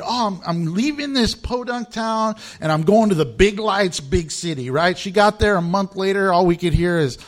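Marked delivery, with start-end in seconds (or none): 0.0-4.7 excited. Retold or imitated. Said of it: "And she was so excited".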